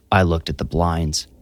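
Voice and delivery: ordinary delivery, nothing marked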